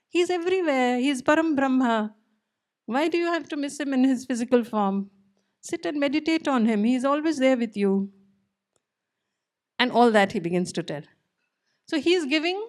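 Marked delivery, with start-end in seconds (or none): 0.1-7.9 higher, preachy know-it-all tone; lofty lecturing. Acted. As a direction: talk down to them like a smug teacher. Uddhav lecturing the gopis.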